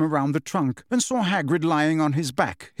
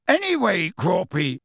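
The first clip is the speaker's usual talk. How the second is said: calls out high to the giant; shouting; 4 semitones higher than usual. A narrator's reading. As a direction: shout up to Grawp. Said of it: "shouted Hagrid".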